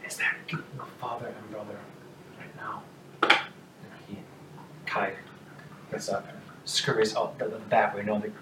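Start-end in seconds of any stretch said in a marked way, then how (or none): 0.1-2.8 much softer, hushed question; small voice asking after father and brother; quiet hopeful ask. Acted. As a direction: ask timidly, barely daring to hope. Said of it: "and a little head is poking up".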